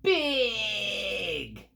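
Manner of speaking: very high, loud creature shouts; creatures yelling. Acted. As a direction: hurl the words at the other side. Creatures yelling at each other.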